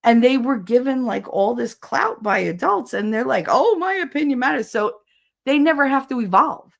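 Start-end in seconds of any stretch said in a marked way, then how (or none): 3.5-4.7 high-pitched mocking kid voice; self-important kid. Mocking kids who got clout from adults, self-important. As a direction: mimic a kid puffed up with importance.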